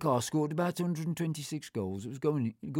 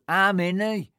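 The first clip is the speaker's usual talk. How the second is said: louder gruff chip shop man; 7 semitones higher, 7 dB louder, slower than usual. Retold or imitated. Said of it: "And he'd go".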